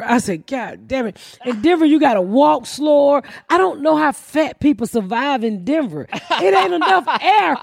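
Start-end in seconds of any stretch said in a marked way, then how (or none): 0.5-3.2 mock exasperated shout. Retold self-talk in Denver.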